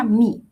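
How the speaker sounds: "me" like the Spanish mi; pronounce me. Shown as a demonstration. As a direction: say "me" as English mee, long ee. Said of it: "pero se pronuncia".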